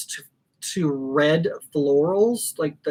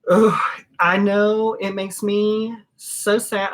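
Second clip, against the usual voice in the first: near tears; 3 semitones higher than usual. Real, not acted. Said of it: "I'd probably start crying right now".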